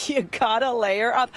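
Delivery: put-on slow Polish-accented mom; hint of Polish accent, motherly advice; Polish mama voice. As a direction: lightly imitate a Polish mother, drawn out. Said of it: "do her Polish mama voice".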